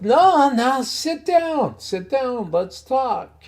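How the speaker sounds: high-pitched imitation of a Scottish pub owner; Scottish accent. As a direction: imitate an insistent Scottish host, voice lifted. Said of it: "In his Scottish accent".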